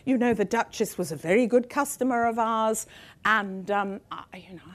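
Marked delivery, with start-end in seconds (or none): 0.0-2.9 much higher, quoting a French CEO; put-on high voice of a jeweller. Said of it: "who said to me".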